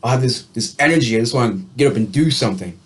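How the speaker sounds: quick, restless burst of energy; eager and fast; energized inner voice. Retold or imitated. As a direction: rattle it off like you can't sit still. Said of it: "might feel like".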